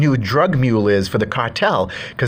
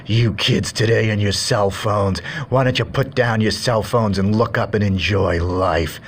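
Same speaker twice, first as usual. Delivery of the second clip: slow, lightly voiced cranky old-timer; a hint of a grumbling grandpa, taking his time; grumpy old man; slower than usual. Old man lectures phone-using kids, slow mild grumble.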